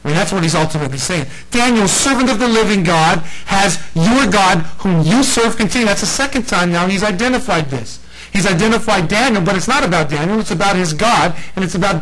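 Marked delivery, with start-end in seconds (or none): 1.5-5.9 a hint of the king's desperate plea; anguished cry. The king calls down into the den in mild anguish. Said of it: "He's crying out".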